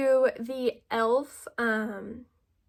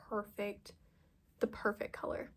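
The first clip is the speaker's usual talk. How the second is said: hushed admiration; 2 semitones lower, 9 dB quieter than usual. Real, not acted. Admiring the blush color.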